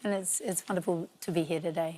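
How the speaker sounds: hoarse, croaky voice; rough throat from a cold. Real, not acted. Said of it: "despite my croaky voice".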